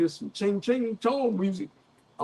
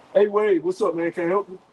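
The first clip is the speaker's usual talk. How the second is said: put-on rough voice; 4 dB louder than usual. Explaining what a manager would write you up for, imitating a rough voice. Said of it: "talking with a rough".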